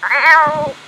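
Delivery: loud playful shrieking; excited shrieks. Real, not acted. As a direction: yell at the piglets in mock glee. Shrieking at pigs in game.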